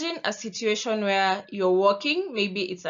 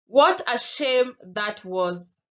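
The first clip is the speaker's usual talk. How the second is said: disappointed; 5 dB louder, slower than usual. Shown as a demonstration. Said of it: "we have disappointment".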